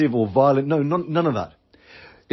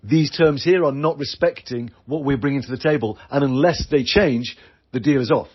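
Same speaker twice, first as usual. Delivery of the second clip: firm refusal. Pretend. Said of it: "let your Rottweiler off the leash and say".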